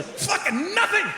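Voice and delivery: very high, screechy comic rant; high mock-outraged climax; exasperated outburst. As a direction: explode into a high-pitched yell.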